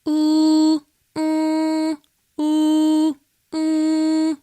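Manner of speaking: sung oo vowels, high; oo sung with changing throat space; open and narrow oo. Shown as a demonstration. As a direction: switch between open and closed oo. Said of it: "Same with the oo".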